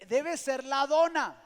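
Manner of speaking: loud, high, slowed-down declaration; emphatic guess. Retold or imitated. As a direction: retell the guess loudly and slowly. Retold guess about barking dog.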